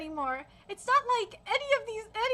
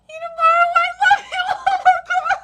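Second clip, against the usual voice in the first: high, loud, breaking into sobs; real tearful outburst; 10 semitones higher, 12 dB louder than usual. Real, not acted. Reader voicing a mother's last message, overcome and tearful. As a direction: blurt it out through tears. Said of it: "I'm trying not to cry".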